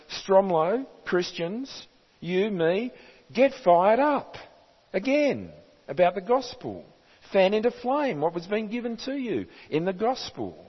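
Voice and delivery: voicing a stirring charge, lifted well above normal pitch; rousing exhortation. Preacher voicing Paul's rousing charge.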